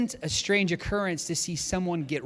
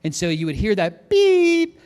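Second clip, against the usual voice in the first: imitated beep; 4 semitones higher, 8 dB louder than usual. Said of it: "there's a bell".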